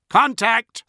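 high, loud alarm call; crying out. A narrator's reading. Tracking officer spotting a ship, crying out. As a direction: cry it out in alarm. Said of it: "the tracking officer cried".

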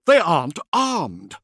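loud, high, slow insistence; agitated protest; near hysteria. A narrator's reading. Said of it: "Sark sounded no better".

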